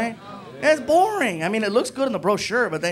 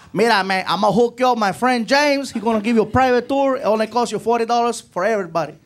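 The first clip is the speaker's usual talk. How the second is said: Puerto Rican clerk; 4 semitones higher, 5 dB louder than usual. Retold or imitated. Juan selling a private tour.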